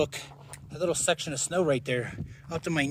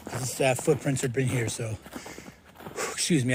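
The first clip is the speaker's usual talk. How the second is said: winded, catching breath. Real, not acted. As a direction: talk through heavy breathing. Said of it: "out of breath as usual".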